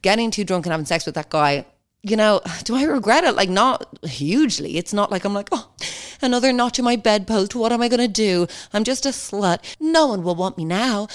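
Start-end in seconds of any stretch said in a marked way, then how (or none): 5.5-11.1 higher, theatrical lament; mock self-pity. Podcaster scoffing at regret over sex, mock self-pity. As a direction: ham up the woe-is-me regret.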